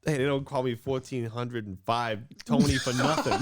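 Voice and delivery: lightly put-on Brooklyn accent. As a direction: play a Brooklyn tough with a nickname. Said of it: "would love to have a Brooklyn nickname".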